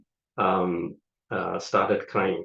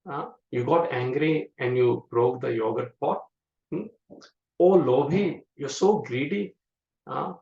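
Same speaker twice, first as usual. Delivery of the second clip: put-on higher-pitched, gently scolding a naughty child; mother mildly scolds her runaway son, in a raised, chiding voice; mild mother's scolding; 4 semitones higher than usual. Mother scolds little Krishna for stealing butter, mildly chiding. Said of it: "mildly chastising Krishna".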